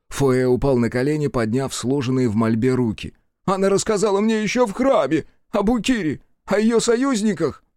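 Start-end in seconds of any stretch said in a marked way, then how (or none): 3.5-7.6 frightened confession. Acted. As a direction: blurt it out in panic. Foe confessing in terror.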